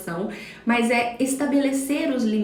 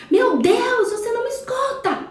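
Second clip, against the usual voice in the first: much higher and louder exasperated shout; mother yelling at the son who won't listen, exasperated shout; 12 semitones higher, 3 dB louder than usual. Retold or imitated. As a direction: yell it like a mom at the end of her rope. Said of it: "E eu dou um grito".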